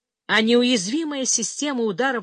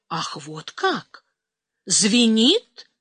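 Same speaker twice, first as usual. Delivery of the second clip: mocking retort; 4 dB louder, much slower than usual. A narrator's reading. Officer mocks Karagod's ringing ears, sarcastic and loud. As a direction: throw his words back at him.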